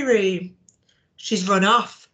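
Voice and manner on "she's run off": cross. Acted. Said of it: "said Horace crossly".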